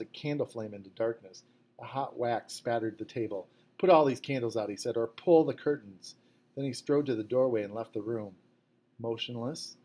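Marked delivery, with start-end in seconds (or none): 3.8-4.7 louder, a sharp command; shouted order. A narrator's reading. Officer barking orders. 5.0-6.1 louder, a sharp command; shouted order. A narrator's reading. Officer barking orders.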